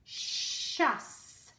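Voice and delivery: "Shuss" breathed out with no voice; whispered ending syllable. Shown as a demonstration. Teacher isolating the last syllable of delicious. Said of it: "hear the last syllable".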